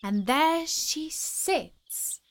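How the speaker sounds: high, slow pointing line; slow and wondering. Acted. Girl shows the court the bird, slow and high. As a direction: savour each word as you show it. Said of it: "she added".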